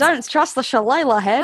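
put-on playful echo in an Australian accent; mock Australian accent. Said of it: "I didn't mean to go Australian".

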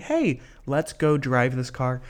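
slow, coaxing push to go drive; mild mock peer pressure; peer pressuring. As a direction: egg a friend on, lightly voiced. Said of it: "somebody just peer pressuring".

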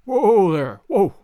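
loud, drawn-out halt call; calling out to a horse. Acted. Holmes pulling up the horse at the villa, calling out loudly. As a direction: call out firmly to pull up a horse.

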